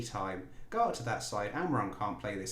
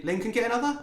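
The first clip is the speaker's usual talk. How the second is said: excited; 13 semitones higher, 8 dB louder, faster than usual. Real, not acted. Chance for second goal.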